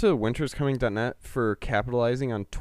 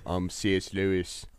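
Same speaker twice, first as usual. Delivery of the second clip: lightly put-on, lower British accent; 4 semitones lower, 3 dB quieter than usual. Podcaster practising British accents for an audition, put-on British accent. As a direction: try on a British C S Lewis. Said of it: "work on our British accents".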